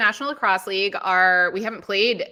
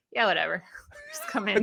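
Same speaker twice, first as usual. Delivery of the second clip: careless shrug; 4 dB quieter than usual. Retold or imitated. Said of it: "they're like".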